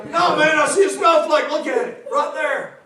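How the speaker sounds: hammed-up redneck alarm; redneck lookout. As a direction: insist on the sighting like an excited country lookout. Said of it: "because some redneck goes".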